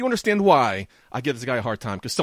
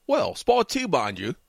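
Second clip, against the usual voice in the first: put-on a rough British accent, first line higher; 5 semitones higher, much slower than usual. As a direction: attempt a British accent, cheeky. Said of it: "starting to dig the British accent".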